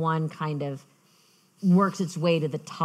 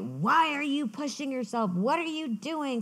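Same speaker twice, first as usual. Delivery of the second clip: worried mom; 8 semitones higher than usual. Retold or imitated. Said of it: "we got into this huge fight".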